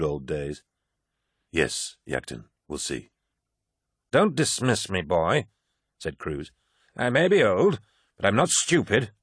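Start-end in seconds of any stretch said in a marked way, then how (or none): 1.5-3.1 weary sigh. Acted. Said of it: "Loken sighed". 4.1-9.1 put-on higher, lively old soldier voice; garrulous old warrior holding forth; old veteran Cruz.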